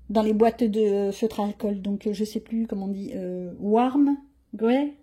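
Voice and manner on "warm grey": "warm, grey" said in a French accent; self-mocking French accent on "warm, grey"; English words, French accent. Real, not acted. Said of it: "mon accent est beau".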